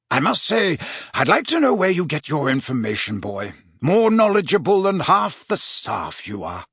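lightly voiced chummy professor; jovial Slughorn. Slughorn to Riddle about his information, playfully impressed. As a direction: tease a favourite pupil in a mildly put-on voice.

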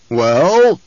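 loud, impatient demand; forceful baronial question. A narrator's reading. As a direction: demand an answer at once. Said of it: "the Baron demanded".

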